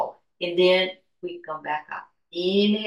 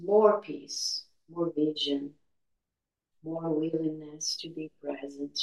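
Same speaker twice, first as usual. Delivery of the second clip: hushed, unhurried calm of a healer; airy breathy mystical healer; 2 semitones lower, 6 dB quieter than usual. Acted. Leads a guided meditation.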